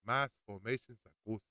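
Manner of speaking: "Mass formation psychosis" in a light mock African accent; a hint of African accent on "Mass formation psychosis"; Wakanda way accent. Shown as a demonstration. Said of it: "Let me say it in my Wakanda way".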